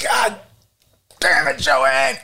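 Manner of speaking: high-pitched mock exasperation; exasperated husband. Father cursing mother for volunteering him, high mock exasperation.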